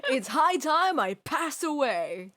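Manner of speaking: slow, loud hammed-up echo; mock dramatic echo. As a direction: ham it up mockingly. Friend echoes the line mockingly.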